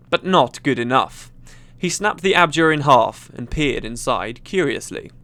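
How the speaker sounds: measured, dramatic storytelling; story narration. A narrator's reading. Gamer reads a fantasy story to viewers, dramatic narration. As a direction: read it out like a tense adventure tale.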